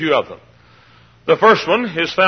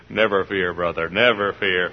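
reassuring; 7 semitones lower, 4 dB quieter than usual. Retold or imitated. His calm answer to the worrier.

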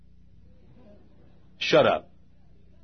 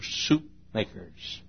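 muttered aside; 7 dB quieter, much slower than usual. Real, not acted. Muttered aside at end of line.

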